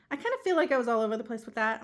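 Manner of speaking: breathless, rushing the words; panting between words; out of breath. Real, not acted. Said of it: "I'm a little out of breath still".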